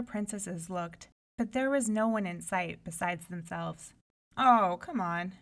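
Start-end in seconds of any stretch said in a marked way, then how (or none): 4.4-5.3 dismissive. Acted. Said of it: "said the oldest princess".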